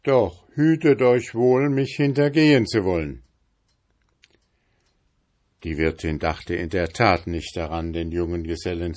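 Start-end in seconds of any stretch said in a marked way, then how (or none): 0.0-3.2 louder, fast threat; stern warning. A narrator's reading. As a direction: warn her not to betray. Journeyman warns landlady.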